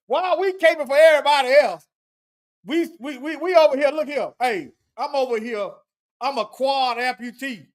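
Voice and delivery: mocking play-acted eager helper. Commentator acting out someone caping for others, mocking. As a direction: play the over-willing volunteer in mockery. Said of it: "that's why I'm mocking this".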